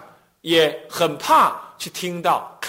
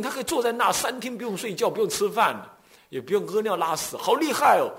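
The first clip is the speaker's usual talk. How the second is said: higher, eager boast about the master; mock bragging; 5 semitones higher than usual. Chan follower bragging to a friend, high and eager. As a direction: puff up, show off a miracle-working teacher.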